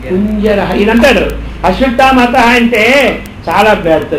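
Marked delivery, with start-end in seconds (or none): 1.6-2.5 said loudly. Retold or imitated. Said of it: "Ashwatthama అతహ అని గట్టిగా చెప్పు".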